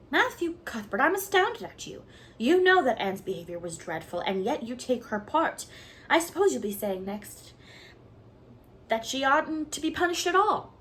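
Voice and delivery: high, loud astonished scolding; astounded. Acted. Marilla shocked Matthew takes Anne's side, high astonished scold. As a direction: rise up in shocked disbelief.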